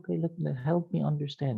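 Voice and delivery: gently softened, supportive questioning tone; voice brought down. Shown as a demonstration. Counsellor asking a youth to explain, voice softened. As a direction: ease off the volume to invite an answer. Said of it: "You see how my voice went down?".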